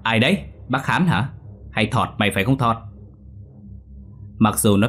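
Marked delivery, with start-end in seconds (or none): 0.0-2.8 put-on a boy stammering at a shadow in the dark, frightened and rising. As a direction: stutter out the question, scared of the dark figure. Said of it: "Thằng Tèo ấp úng hỏi".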